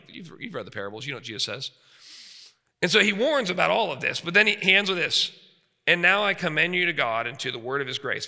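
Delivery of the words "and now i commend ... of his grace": scripture reading. Shown as a demonstration. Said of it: "verse thirty-two".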